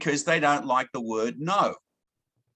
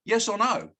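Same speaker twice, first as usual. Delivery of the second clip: demo question; 5 semitones higher than usual. Shown as a demonstration. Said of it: "you say".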